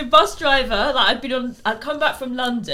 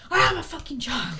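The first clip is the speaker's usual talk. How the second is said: whiny protest; 5 semitones higher than usual. Retold or imitated. Passenger whining.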